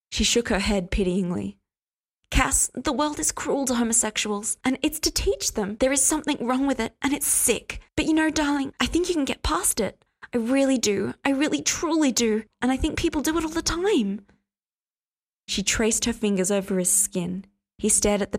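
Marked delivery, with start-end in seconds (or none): 2.3-14.3 sickly sweet. Acted. Hester preaching sweetly at Cass.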